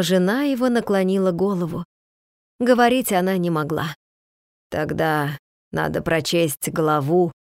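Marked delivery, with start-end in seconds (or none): 4.7-7.3 ниже, тише и медленно, с усилием; выговаривай по слову, через силу; медленно, с трудом. Acted. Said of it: "медленно, с трудом выговорил". (слабый отец с трудом просит прочесть главу, медленно)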